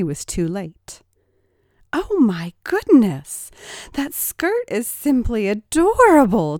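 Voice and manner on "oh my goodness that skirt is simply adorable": high, loud mock delight; loud, high teasing coo over the skirt. A narrator's reading. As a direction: gush over it to tease him. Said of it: "teased Rachel".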